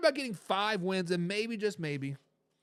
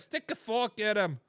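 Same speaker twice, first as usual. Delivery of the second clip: put-on unconvincing Boston accent, dropped r in "fork"; badly faked Boston accent; attempted Boston accent. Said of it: "I tried to do a Boston accent".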